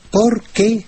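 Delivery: "por qué" as two separate words, accent on qué; stress on qué, two words. Shown as a demonstration. Teacher showing listeners the two-word question, "por qué" split, qué accented. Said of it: "en dos palabras con, eh, acento".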